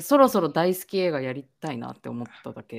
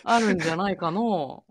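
put-on playful elderly storyteller voice; folk tale old man; 3 semitones higher than usual. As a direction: speak like a folk tale grandpa. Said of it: "なんか昔話のおじいさんみたいな".

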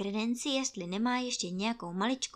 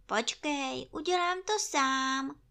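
kindly; 6 semitones higher than usual. Acted. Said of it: "řekl Pú vlídně".

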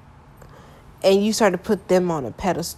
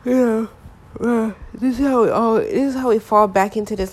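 gentle suggested wording; 4 semitones higher than usual. Shown as a demonstration. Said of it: "Or you could say".

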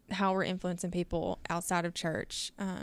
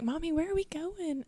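imitating little daughter; 9 semitones higher than usual. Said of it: "and she's like".

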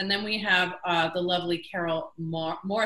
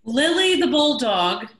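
laughing; 4 semitones higher, 8 dB louder, slower than usual. Real, not acted. Laughing over snoring dog clip.

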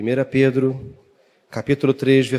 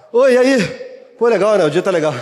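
nervous small talk; 6 semitones higher, 4 dB louder, faster than usual. Retold or imitated. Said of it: "eu tava morrendo de medo".

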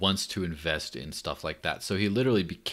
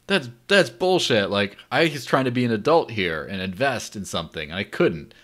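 indignant friend; 3 semitones higher, 4 dB louder than usual. Retold or imitated. Friend's outraged retold reply.

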